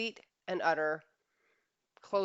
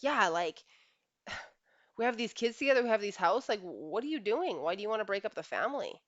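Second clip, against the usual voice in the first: higher, louder, rushed pleading; pleading husband; 4 semitones higher, 4 dB louder than usual. Retold or imitated. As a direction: plead fast to save the family. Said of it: "And he's like".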